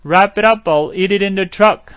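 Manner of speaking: slow full-sentence demo; slow linked model. Shown as a demonstration. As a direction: wrap it up, I'll eat it in the truck very slow, every link shown. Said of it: "살짝 하고".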